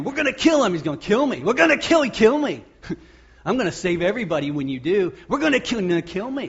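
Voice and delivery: high, loud, hammed-up scheming; mock plotters' shout. Preacher voicing plotters shouting their scheme, hammed-up loud. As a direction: shout it like gleeful conspirators.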